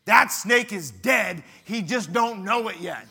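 loud, slow, deliberate declaration; calm companion. Retold or imitated. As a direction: state it slowly and flatly. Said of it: "and he said".

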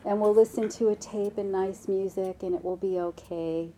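lightly voiced soothing mother; a touch of patient, tender coaxing; gentle mom. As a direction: gently reassure a whining child. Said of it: "Mom says no very gently".

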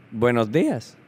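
lightly voiced greeter in Spanish; camp lady greeting. Camp lady greeting a new kid, lightly voiced Spanish hello. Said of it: "So she walks up".

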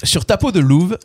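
measured spoken lyrics, each line set apart; lyric recitation. Acted. Quiz host repeating lyrics on request, measured recitation. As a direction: recite the words like verse, without singing.

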